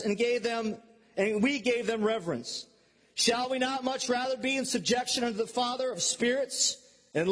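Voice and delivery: scripture reading. Real, not acted. Reads scripture aloud to the church.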